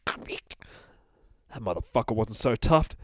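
slow whispered shrug; cool whisper. Acted. Bear walking away from the exploding castle, whispered cool. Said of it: "says the bear".

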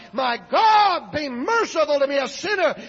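high, loud impassioned plea for mercy; crying out. Retold or imitated. Bus driver on his knees before children, shouted desperate prayer. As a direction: shout the prayer with everything you have. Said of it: "began to cry out".

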